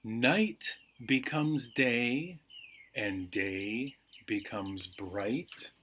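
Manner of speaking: slow, soothing read-aloud; slow bedtime reading. A narrator's reading. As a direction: lull them toward sleep, unhurried. Reads calming bedtime book.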